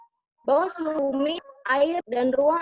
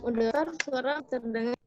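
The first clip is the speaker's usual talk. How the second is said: call dropping out; 3 dB quieter than usual. Real, not acted. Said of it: "Suara putus-putus".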